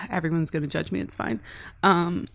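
nervous trembling voice; shaky voice. Real, not acted. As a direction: voice shaking a little as you admit it. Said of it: "Why is your voice so shaky?".

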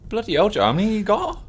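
high, startled exclaim; shocked. Real, not acted. Host shocked at cohost's many licence points, high surprise. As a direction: gasp it out at the number of points.

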